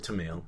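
TAMAL as tuh-MAIL; unheard-of pronunciation. Shown as a demonstration. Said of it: "I've never heard".

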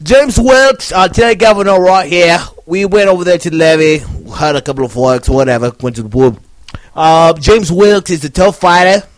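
mock English accent. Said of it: "in an English voice".

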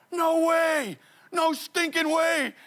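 high, loud, slow amazement; can't believe the finish line; disbelieving joy. Retold or imitated.

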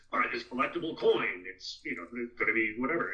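lightly voiced TV commercial announcer; hint of a hyped ad announcer; generic announcer voice. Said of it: "The generic announcer voice?".

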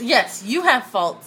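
slow, pointed agreement. Real, not acted. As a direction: lean on it, teasing. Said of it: "look how she said that".

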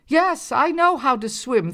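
high, cross shout; shouting back. A narrator's reading. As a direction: snap back across the water. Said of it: "Thorny shouted back".

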